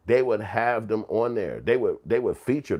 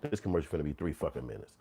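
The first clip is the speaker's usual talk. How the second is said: fed-up mutter; 7 semitones lower, 8 dB quieter, faster than usual. Retold or imitated. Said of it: "You like".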